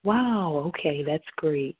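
lightly put-on business voice; controlled, polite professional phone manner, mildly acted. Shown as a demonstration. Serious business call greeting, business voice. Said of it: "in my business voice".

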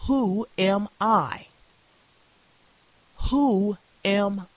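pulpit reading with long, weighted pauses; solemn, emphatic Bible reading; dramatic scripture reading. Acted. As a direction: draw out "Who am I" slowly, then carry on. Reads scripture aloud with dramatic weight.

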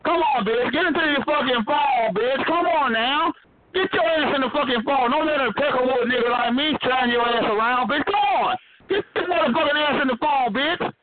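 real, relentless angry tirade; angry yelling. Real, not acted. Man ordering a caller onto the chat line, angry yelling. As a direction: keep yelling, demanding an answer. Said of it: "Why are you yelling like that".

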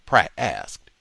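ordinary delivery, nothing marked

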